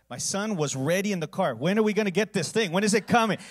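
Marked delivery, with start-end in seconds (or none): 1.6-3.4 put-on loud, high, impatient little boy calling out; eager kid. Little son asking his father from the car, loud and eager. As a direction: voice the son bursting to get going.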